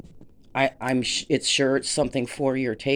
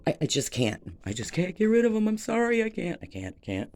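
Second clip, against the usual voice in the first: choked up; 5 semitones higher, faster than usual. Real, not acted. Can't part with bowls.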